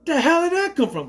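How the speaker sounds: high, loud baffled cry; plain; shocked. Retold or imitated. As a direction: blurt it out in disbelief. Shocked reaction to the scene.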